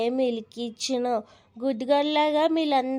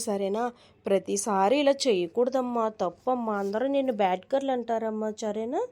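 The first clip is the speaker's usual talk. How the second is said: gentle mother; 4 semitones lower than usual. Acted. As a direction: soothe the child while correcting her. Mother gently coaxes little daughter.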